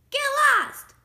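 high, loud yell; rude pig shouting. A narrator's reading. Pig sends the wolf away, shouting. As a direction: yell it rudely as the little pig. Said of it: "shouted the rude little pig".

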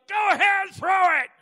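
loud, high defiant yell; yelled dare. Retold or imitated. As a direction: dare him to throw it. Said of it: "and he yelled".

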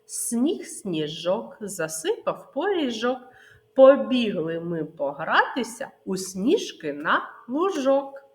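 put-on rhythmic children's finger-game chant; nursery rhyme. Teacher chants finger game rhyme to children, sing-song. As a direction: bounce the rhyme for little ones. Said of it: "Ще раз".

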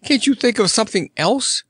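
put-on a girl near panic; crying out. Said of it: "cried Dorothy".

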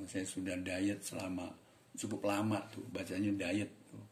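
normal talking voice

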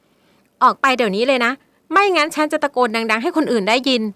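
loud, slow, scared warning; girl threatens to scream for help; frightened threat. Acted. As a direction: bluff through fear. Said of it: "เธอขู่ฟ้อด้วยความกลัว".

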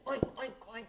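quick piglet oinks; baby piglet. Acted. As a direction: oink like a little pig. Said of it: "the baby piglet says".

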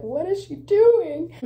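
high, slow, horrified mock voice; mock hairdresser. Imitating hairdressers watching her tutorial, high and aghast. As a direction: gasp it like an appalled stylist. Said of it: "They're like".

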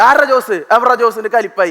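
angry teacher. Retold or imitated. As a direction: snap at the class. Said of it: "മാഷ് കയറി കലിപ്പായി".

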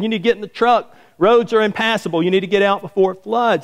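put-on high-pitched call to an old man; retold yell. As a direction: call out urgently, pitched well up. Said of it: "the guy yells out".

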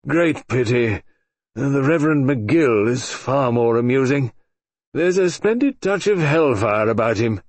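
put-on slow, wheezing, amused old man; wheezy old colonel. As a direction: breathe it out asthmatically. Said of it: "breathing asthmatically".

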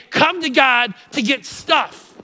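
"Come to God to get stuff." said slow and mocking, dwelling on "stuff"; wrong version. Shown as a demonstration. Preacher showing the congregation the wrong saying, slow and mocking. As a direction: drag out "stuff" like a wrong idea. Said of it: "We don't say".

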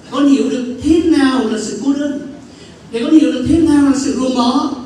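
voice of God, building. Retold or imitated. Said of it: "Chúa nói với tôi".

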